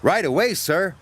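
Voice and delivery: eager whistle. Acted. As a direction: answer eagerly. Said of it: "whistled Thomas".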